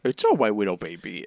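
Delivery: imitated cooing to an infant; baby talk. A father to his baby Pez, imitated baby talk. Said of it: "he starts baby talking to Pez".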